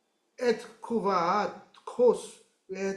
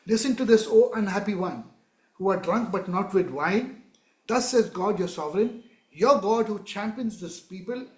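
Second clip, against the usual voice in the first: raised, solemn voice of God; declaiming scripture. Acted. Preacher voicing God speaking to Zion, solemn declaiming. Reads God's words.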